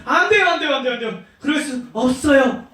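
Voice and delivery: hammed-up flustered refusal; Peter. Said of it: "베드로한테 이렇게 말했어요".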